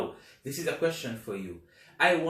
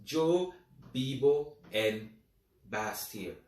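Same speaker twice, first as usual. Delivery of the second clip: slow model answer; slower than usual. Shown as a demonstration. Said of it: "it is gonna be".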